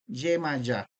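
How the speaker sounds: "Yemayá" said ye-ma-YA with a falling end; sounded-out name. Shown as a demonstration. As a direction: say "Yemayá" carefully. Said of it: "usted va a dar con el nombre".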